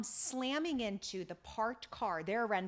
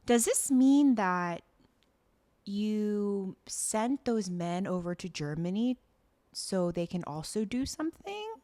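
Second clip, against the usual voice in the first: mock Grace; 4 dB louder than usual. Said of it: "Grace is like".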